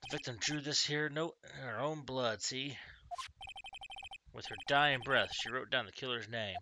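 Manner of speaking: put-on a touch of Southern-accented police detective; lightly voiced Southern accent. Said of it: "I gave him a southern accent".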